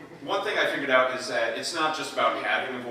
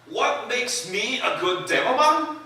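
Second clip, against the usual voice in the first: higher, loud shouting Scottish brawler; Scottish Demoman; 13 semitones higher, 13 dB louder than usual. Acted. A Scottish demolitions man boasting and laughing, in a loud Scottish accent. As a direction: roar it in a rowdy Scottish brogue, half laughing. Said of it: "the Scottish demo man".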